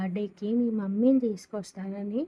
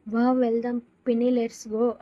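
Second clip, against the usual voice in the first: put-on louder gleeful child; happy, excited; 2 semitones higher, 6 dB louder than usual. A narrator's reading. Little girl cheers about going to Cinderella, excited. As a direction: burst out with joy. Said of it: "ఆనందంగా అంటుంది".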